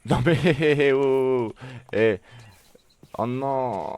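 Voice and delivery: cris de frayeur aigus et forts; streamer de jeu d'horreur effrayé. Real, not acted. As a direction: crier de peur puis rire nerveusement. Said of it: "il m'a fait peur". (surpris par l'Enderman, cri effrayé)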